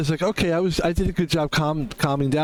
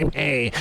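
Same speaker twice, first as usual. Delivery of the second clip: imitated yelling. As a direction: mimic people hollering, without real volume. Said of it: "I don't like people going".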